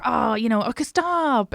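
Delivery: Irish woman quip. Retold or imitated. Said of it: "a very Irish woman thing to be like".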